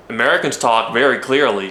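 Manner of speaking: carefully articulated American accent. Shown as a demonstration. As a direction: try an American accent, very clearly. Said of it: "What about American?".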